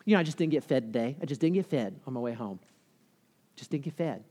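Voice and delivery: soft, low mock churchgoer complaint; quiet grumbling complaint. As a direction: grumble it low and trail away. Mimicking a dissatisfied churchgoer's complaint.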